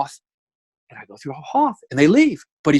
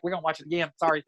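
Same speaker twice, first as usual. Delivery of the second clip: put-on Southern accent; 7 dB quieter, much faster than usual. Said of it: "that Southern".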